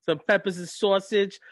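hammed-up Jersey Italian-American accent; Jersey Shore. Riffing on Jersey Shore food, mock New Jersey accent. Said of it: "repeating stuff I hear from Jersey Shore".

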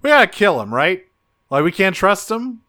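hammed-up alarm, pushing hard; paranoid Rat Trap. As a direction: Rat Trap urging Optimus to get rid of Dinobot. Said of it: "turns to Optimus and goes".

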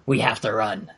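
low croaky frog voice. Acted. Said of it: "a frog voice".

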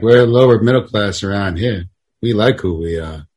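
low, subdued local griping about outsiders; lightly voiced wary townsman; small-town mill man. Mill man warning off college boys, lightly voiced local.

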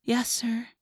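put-on small, humble girl's voice; most humble voice. A narrator's reading. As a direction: answer an authority submissively. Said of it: "in her most humble voice".

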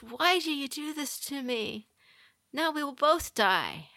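high-pitched, pleading reproach; mock distress of a betrayed frog; dismayed frog. Drowning frog reproaches the scorpion.

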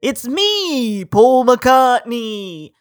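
a cheerful celebrity phone hello; hint of a Liverpool star calling; Paul McCartney. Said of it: "This great impression".

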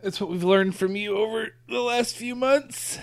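yawning. Real, not acted. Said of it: "Here I am yawning while I'm talking".

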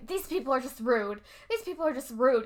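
contained, mildly indignant mom; imitated muttering to herself. Angry mom talking to herself in the stands, imitated muttering. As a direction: grumble it as if soothing someone, imitating her. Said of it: "like, talking to herself".

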